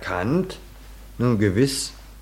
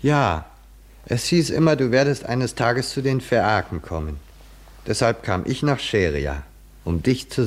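higher, eager, beaming with excitement; rapt enthusiasm; 4 semitones higher than usual. Acted. The bard tells Odysseus he awaited him, eagerly excited. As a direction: blurt it out, thrilled to finally meet him. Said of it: "merkwürdig strahlenden Begeisterung".

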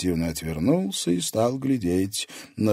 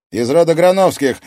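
higher, louder defiant retort; 10 semitones higher, 12 dB louder than usual. A narrator's reading. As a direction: throw his family name back at him. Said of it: "дерзко ответил Алекс".

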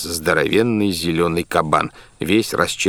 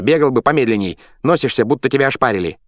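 shouting; 6 semitones higher, 4 dB louder, faster than usual. A narrator's reading. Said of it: "закричал он в сторону колодца".

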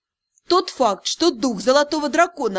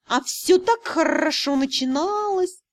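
dejected exclamation; 4 semitones higher than usual. A narrator's reading. Cat lamenting his bad luck, dejected exclamation. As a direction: cry out in mock despair. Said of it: "сокрушённо воскликнул".

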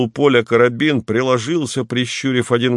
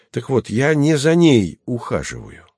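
affronted; 5 semitones higher than usual. Acted. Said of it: "оскорблённо сказал".

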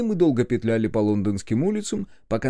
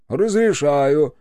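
curt permission; 4 semitones higher, 7 dB louder, much slower than usual. A narrator's reading. Officer answers question curtly.

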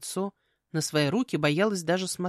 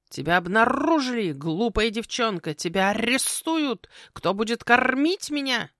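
slow, high, loud croaking with rolled r's; panicking raven; 5 semitones higher, 4 dB louder than usual. Acted. Raven panicking at the knock on the door, croaking loudly. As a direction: cry out in drawn-out alarm. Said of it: "прикрикнула на паникёра".

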